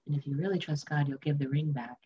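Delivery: sober inner warning. Retold or imitated. Inner voice gives a stern warning.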